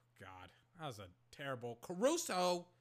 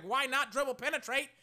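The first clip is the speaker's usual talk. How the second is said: imitating Curry; 10 semitones higher, 9 dB louder than usual. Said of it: "He's just like".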